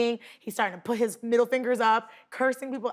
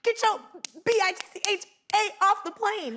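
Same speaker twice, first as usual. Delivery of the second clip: mock yell; 9 semitones higher than usual. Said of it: "He's like".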